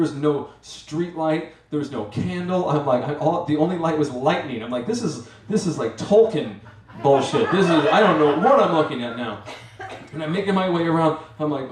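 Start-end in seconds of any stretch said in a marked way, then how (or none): 4.9-9.4 louder, laughing bewilderment; half-laughing, half-panicked; lost on a cliff, laughing in disbelief. Retold or imitated. Bewildered at dark landscape.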